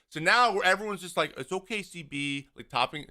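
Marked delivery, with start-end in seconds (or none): 1.4-2.5 soft, mock-soothing reassurance. Players patting the umpire on the head, soothing. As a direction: hush him gently, as if humouring. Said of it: "patting him on the head".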